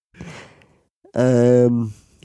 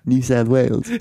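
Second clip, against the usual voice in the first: light mock Australian, rising end; name home in an Australian twang; Australian accent. Tall man says where he's from, Australian accent. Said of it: "reference point for an Australian accent".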